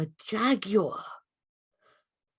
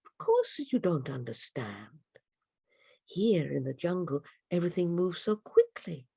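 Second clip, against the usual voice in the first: calm her down kindly; a hint of a gentle butterfly guide; soothing butterfly. Morpho reassures the girl.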